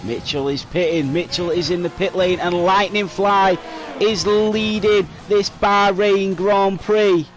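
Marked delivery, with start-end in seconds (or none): 1.1-7.3 motorsport commentator. Real, not acted. Announcing new race leader.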